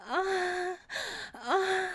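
sharp high-pitched gasping moans. Acted. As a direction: let out high breathy cries. Climax building moans.

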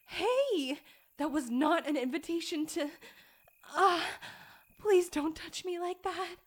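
loud, high outraged objection; indignant protest. Acted. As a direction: snap back in outrage. Indignant outburst.

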